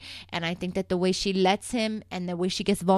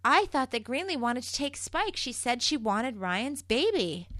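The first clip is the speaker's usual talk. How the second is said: higher, softer, playing innocent; pleading Kendall; 6 semitones higher, 4 dB quieter than usual. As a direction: whine that it wasn't her fault, mock-sweet. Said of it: "So then Kendall's like".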